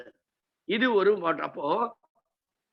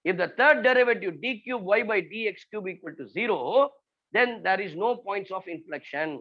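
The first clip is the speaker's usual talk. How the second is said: slow dictation; much slower than usual. Shown as a demonstration. Dictating a rule.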